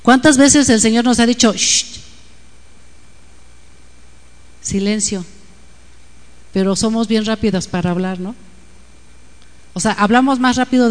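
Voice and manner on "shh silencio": hushing shh. Retold or imitated. The Lord hushing her.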